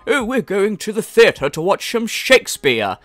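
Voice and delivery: lightly put-on genteel theatregoer; old-time theatregoer. Theatregoer back in the day announces Shakespeare outing, lightly affected. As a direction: play a cultured person from the past, lightly. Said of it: "Remember back in the day, like".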